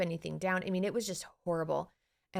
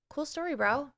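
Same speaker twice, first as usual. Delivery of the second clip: breezy dismissal; 8 semitones higher than usual. Retold or imitated. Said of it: "my brain's like".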